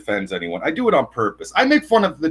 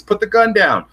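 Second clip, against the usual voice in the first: retold cop order; 9 semitones higher, 5 dB louder than usual. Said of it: "and he says".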